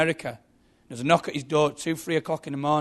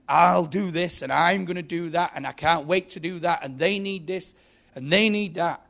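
raised, louder acted grievance; resentful rant; 3 semitones higher, 5 dB louder than usual. Preacher voicing someone justified and angry, a resentful rant. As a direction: pile up the grievances, pitch climbing.

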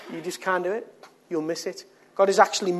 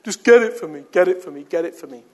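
put-on demanding child, loud then fading; spoiled kid whining; 7 dB louder, faster than usual. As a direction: whine like a spoiled brat. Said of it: "That's what spoiled kids are like".

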